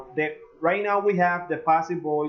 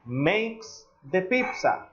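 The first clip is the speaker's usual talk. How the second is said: slow model sentence; 4 semitones higher, slower than usual. Shown as a demonstration. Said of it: "if I say".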